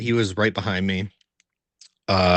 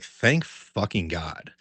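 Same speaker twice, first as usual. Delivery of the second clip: relieved mutter; 3 semitones lower, 5 dB quieter, much slower than usual. Retold or imitated. Relief when no one showed up.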